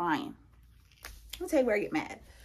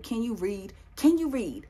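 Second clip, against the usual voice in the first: exasperated retort. Retold or imitated. Retelling her retort to doubting boyfriend, exasperated. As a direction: repeat it harder, fed up with him.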